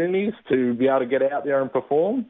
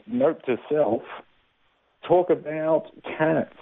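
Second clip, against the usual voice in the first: slow, deliberate note to self; dictaphone memo voice; 2 semitones higher, slower than usual. Retold or imitated. Comedian dictating a memo into his dictaphone, slow. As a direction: dictate it slowly into a recorder. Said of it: "pressing the button going".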